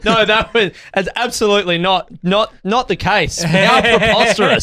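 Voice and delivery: slow, hammed-up mock indignation; hammy denial. Playing a paid actor badly, in hammy mock indignation. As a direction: overplay a bad actor denying it. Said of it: "demonstrating that he's not a great actor".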